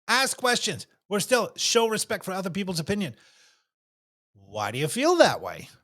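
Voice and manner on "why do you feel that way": gentle curious question. Shown as a demonstration. Models a curious, respectful question.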